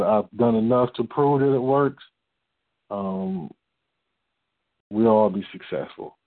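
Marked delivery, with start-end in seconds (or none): 2.9-6.2 out of breath, winded; short of breath. Real, not acted. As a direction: speak while short of breath. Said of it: "as I'm short of breath".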